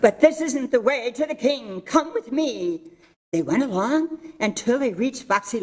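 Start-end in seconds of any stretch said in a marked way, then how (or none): 0.0-2.8 sly fox. Acted. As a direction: lure them in like a fox. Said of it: "said Foxy Loxy".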